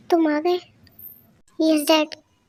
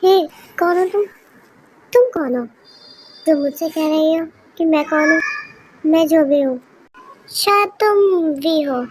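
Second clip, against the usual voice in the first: loud confrontation; 6 dB louder than usual. Acted. Confronting a stranger at night.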